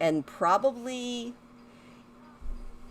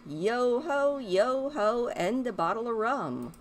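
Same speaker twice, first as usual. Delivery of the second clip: jaunty pirate singsong, higher; 4 semitones higher than usual. Pretend. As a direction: sing it like a merry pirate. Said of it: "it's Talk Like a Pirate Day".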